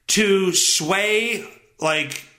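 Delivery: ordinary talk, nothing marked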